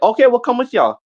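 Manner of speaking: high-pitched mock girl voice; imitated girls.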